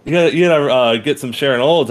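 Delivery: high put-on accent, badly hammed; deliberately terrible accent impression of a teacher; Winston, horrible accent. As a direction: do a mock impression of the old lit teacher, loud and high. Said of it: "I'm doing a horrible fucking accent".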